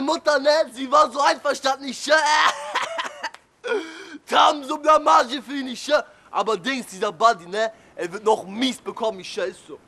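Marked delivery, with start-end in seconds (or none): 4.3-5.7 drawn-out shout of Blamage; mocking slow yell. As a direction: stretch it and yell it out. Punchline after laugh.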